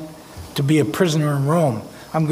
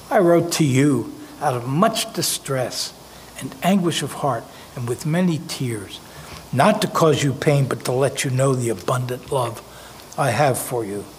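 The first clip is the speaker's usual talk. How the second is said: softer, heavy-hearted, with distress and anguish; humble, grieving reading; 3 semitones lower, 3 dB quieter than usual. Retold or imitated. Preacher contrasts Paul's real letter, sorrowful and humble. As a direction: read it as a man writing with tears. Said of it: "That's not what he says".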